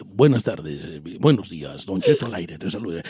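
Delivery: low, soft radio greeting; hushed, very deep presenter; deep announcer voice. Shown as a demonstration. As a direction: open the show as a suave bass host. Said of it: "si yo hablo así".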